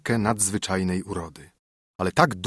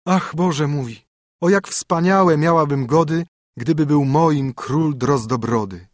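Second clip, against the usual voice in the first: princess lamenting; 4 semitones higher, 3 dB louder, slower than usual. A narrator's reading.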